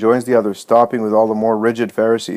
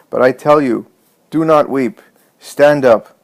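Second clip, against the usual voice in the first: raised, higher, emphatic command; even louder voice; 4 semitones higher, 5 dB louder than usual. A narrator's reading. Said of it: "in an even louder voice".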